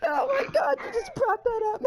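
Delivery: fake-cry through a laugh; mock crying. Host fake-crying after co-host mentions the fight, mock sobbing. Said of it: "Now I'm really gonna cry".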